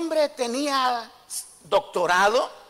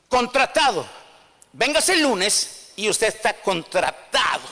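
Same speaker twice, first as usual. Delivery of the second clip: excited manager; 2 semitones lower than usual. Acted. Manager hires him enthusiastically.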